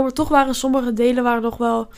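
talking with a head cold; blocked nose, congested voice; stuffy nose. Real, not acted. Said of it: "sorry, ik ben verkouden".

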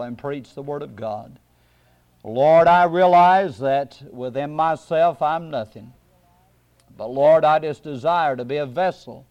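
low, earnest public prayer; low-pitched plea to God. Real, not acted. Leads a prayer.

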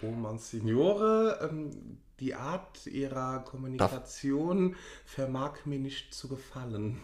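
slow, lightly pompous prelate-speak; mock-grand address to a monsignore. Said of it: "machen wir jetzt den Geschwollenen".

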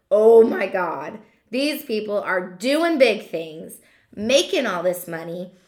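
mock awe. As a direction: act out being impressed, dragging the words. Acting out awed onlookers' thought.

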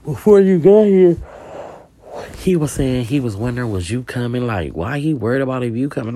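high, loud accusing whine; jealous girlfriend. Retold or imitated. Jealous girlfriend complaining to Pooh about her man, high whiny voice.

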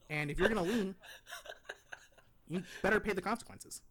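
lightly condescending deadpan pundit impression; Ben Shapiro. Pundit judging rap lyrics for co-host, mildly condescending impression. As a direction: read the lyrics like a judging commentator, half-committed. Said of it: "your best Ben Shapiro impression condescension voice".

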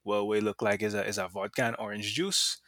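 casual, lightly put-on Grenadian accent. Bartender answers the customer about the drink, mild Grenadian accent. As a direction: play it as an amateur Grenadian impression. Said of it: "That's my terrible Grenadian accent".

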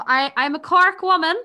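a light Cork accent, played for laughs; a hint of a Cork accent, half joking; mock Cork accent. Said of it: "the accents, it sounds the same as the Kerry one".

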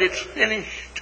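soft, whispered echo. A narrator's reading. The sand whispering to the grass, hushed. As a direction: pass it on in a hush. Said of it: "the sand whispers to the grass".

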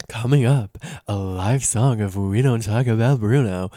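loud, showy announcer mimic; show host teaser. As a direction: imitate a broadcast host hyping what's next. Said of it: "they keep being like".

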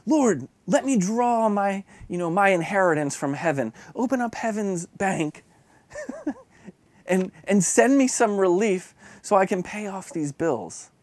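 pleading, guilt-tripping prayer; retold accusatory prayer. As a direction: nag heaven for relief, half-mocking yourself. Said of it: "I'm kind of accusatory".

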